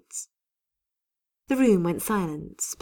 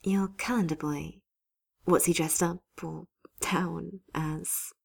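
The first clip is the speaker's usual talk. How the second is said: slow unvoiced whisper; 4 dB quieter, slower than usual. Sally pressing Hero about his calendar, slow whisper. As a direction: hush it, slow and teasing.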